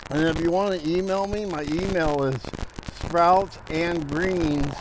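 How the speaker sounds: out of breath from gardening; puffing between words; heavy breathing. Real, not acted. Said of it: "sorry, I'm breathing hard".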